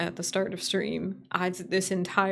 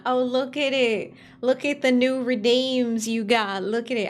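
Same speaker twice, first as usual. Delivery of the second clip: higher, exclaiming pretend reveal; mock showing off; 4 semitones higher, 4 dB louder than usual. Streamer imagining presenting new redeems to viewers, playfully excited. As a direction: act out an excited unveiling.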